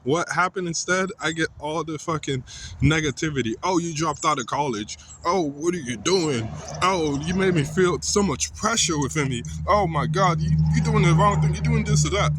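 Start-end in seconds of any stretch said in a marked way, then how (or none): 3.6-12.3 mocking nagging parents. Son mocking his parents' nagging about college, building to a mock yell.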